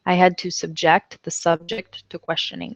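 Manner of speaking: subJECT then SUBject; second careful read of "subject"; homograph demo repeated. Shown as a demonstration. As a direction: model sentence again, clearly. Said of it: "subject and subject are spelled exactly the same way".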